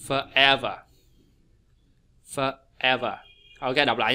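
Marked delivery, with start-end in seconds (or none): 0.1-0.8 "Forever" as fur-EV-er; careful model with a short gap after For; second-syllable stress. Shown as a demonstration. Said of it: "từ này là không được nhấn". 2.2-3.2 "Forever" with unstressed For, weight on EV; careful teacher's fur-EV-er; second-syllable stress. Shown as a demonstration. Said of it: "e được nhấn nè".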